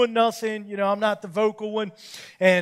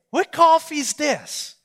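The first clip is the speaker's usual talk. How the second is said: said nice; 7 semitones higher, 4 dB louder, much slower than usual. Retold or imitated. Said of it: "I didn't say it mean".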